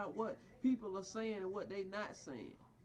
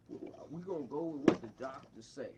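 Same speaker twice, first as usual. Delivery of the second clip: mocking quote; 10 semitones lower than usual. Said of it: "you talking about".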